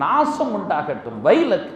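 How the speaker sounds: retold curse, rising on the last word; boiling anger. Prophet boiling over at the accuser, retold angrily. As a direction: fling the final word in mock wrath. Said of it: "கோபத்தோடு கொப்பளித்தார்கள்".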